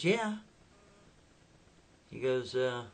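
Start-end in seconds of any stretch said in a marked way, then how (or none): 0.0-0.4 high put-on girl's answer; Becky. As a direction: answer in an imitated, high female voice. Girl answers the man.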